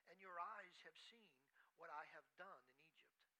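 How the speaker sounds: measured, solemn Bible reading; scripture reading. Acted. Preacher reading Joshua to the congregation, solemn reading. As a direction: read the verses like a preacher at the pulpit. Reads scripture passage aloud.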